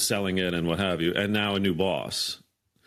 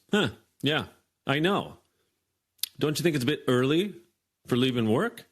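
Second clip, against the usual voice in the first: smug mock boss; 5 semitones higher than usual. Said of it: "does that dramatic pause".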